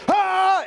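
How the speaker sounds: sudden high, loud angry yell; a short raw scream showing pure anger. Shown as a demonstration. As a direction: let out a burst of rage. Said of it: "anger is screaming and perhaps flailing".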